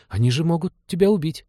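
put-on high-pitched child's warning; alarmed little boy. A narrator's reading. Boy warns pilot he could be killed, alarmed high voice. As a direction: worry aloud like a small boy.

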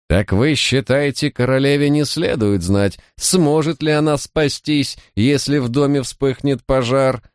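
high-pitched, demanding lady; piercing, sharp voice. A narrator's reading. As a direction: pitch it high and cutting, pressing for an answer. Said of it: "донёсся до меня её пронзительный, резкий голос". (пронзительным, резким голосом)

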